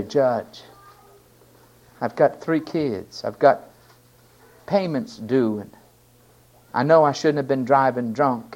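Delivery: mild, halting plea; polite begging. Acted. Drunk driver asking the judge for mercy, politely begging. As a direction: plead humbly, pausing between excuses. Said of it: "you're polite and you beg".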